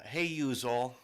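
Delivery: playful Southern-accent greeting. Shown as a demonstration. New Jersey native joking about keeping a Southern accent, playful Southern drawl. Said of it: "the Southern accent, though".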